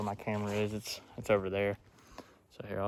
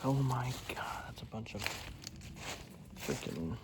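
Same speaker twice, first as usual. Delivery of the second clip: out of breath; 6 dB quieter, slower than usual. Real, not acted. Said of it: "I'm dang near out of breath".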